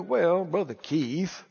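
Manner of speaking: subdued imitation of a hesitant churchgoer; doubting Christians. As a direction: mimic a fellow believer gently making excuses. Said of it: "all kind of Christians that'll try to tell you".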